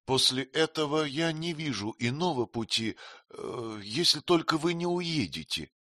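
lightly voiced queen, teasing and frank; Sitabhai, lightly voiced. (слегка изображённая царица, кокетливо)

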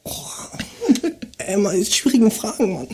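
verpeilter Kiffer, leise und tief. Acted. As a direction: spiel einen bekifften Typen. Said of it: "dann mach ich den, den Kiffer". (Kiffer-Stimme)

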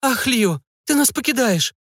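mock-tearful mother, pitched high; dramatic lament of a weeping mother. A narrator's reading. Mother lamenting that her daughter is leaving, hammed-up tearful cry. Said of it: "и всхлипнула".

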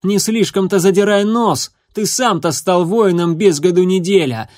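a hateful, jeering challenge; open hatred. Acted. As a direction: taunt the rival with open contempt. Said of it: "с откровенной ненавистью".

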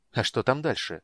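curious. Acted. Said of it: "с любопытством спросил маг".

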